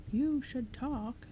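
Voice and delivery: slow, high retort; yelling back. Acted. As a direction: shout the comeback slowly. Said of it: "the second knocker yelled back".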